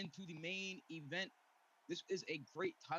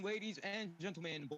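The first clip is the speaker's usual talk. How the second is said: boxing ring announcer. Acted. Ring announcer introducing opponent.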